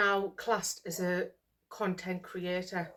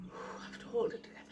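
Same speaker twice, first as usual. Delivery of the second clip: holding back tears; 3 semitones higher, 8 dB quieter, faster than usual. Real, not acted. Overwhelmed vlogger composing herself.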